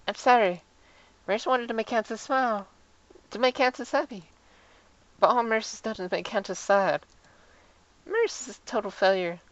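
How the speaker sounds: mildly acted, upset and contrite; self-blaming Maris. Voices Maris blaming herself.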